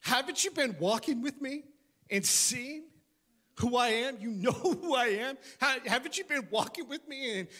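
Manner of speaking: a teacher baffled by his students; exasperated teacher. Acted. Jesus asking frightened disciples why they doubt, exasperated. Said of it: "He was like".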